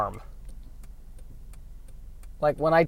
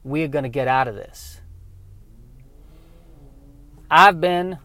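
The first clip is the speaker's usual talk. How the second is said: an unhurried, lightly Southern veteran pilot; calm Southern spaceman. Acted. Veteran pilot calming a panicked crewman, in a relaxed light Southern accent. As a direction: settle the kid down with a lazy Southern calm. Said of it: "people with a southern accent".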